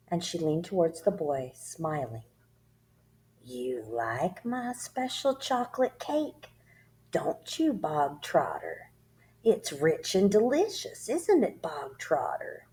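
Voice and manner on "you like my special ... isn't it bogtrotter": slow, softer, higher false sweetness; softer, friendly. Acted. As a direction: coax him like a cat with a mouse. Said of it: "her voice was suddenly softer".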